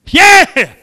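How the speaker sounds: loud, high yell of yes; big loud high "Yeah!"; triumphant shout. Real, not acted.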